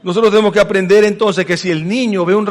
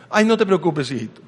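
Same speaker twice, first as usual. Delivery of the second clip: mock gentle parent; 2 semitones lower, 4 dB quieter than usual. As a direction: soothe the child like a pleased parent. Padre contento tras un contrato. (padre contento tras cerrar un contrato consuela al niño, suave y grave)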